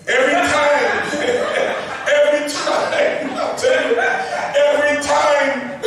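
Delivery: laughing through the repeated words every time, pitch up; chuckling while repeating every time. Real, not acted. Laughing as he recalls the Queen refusing every time.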